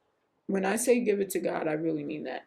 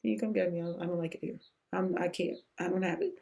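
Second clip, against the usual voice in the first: soft broken plea; 3 semitones lower, 6 dB quieter, faster than usual. Retold or imitated. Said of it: "same way that I operate with God".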